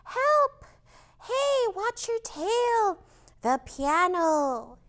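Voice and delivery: high, loud alarmed cries; panicked girls. Pretend. Little girls dodging the dinosaur, panicked cries. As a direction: scream warnings like frightened little girls. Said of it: "the little girls are like".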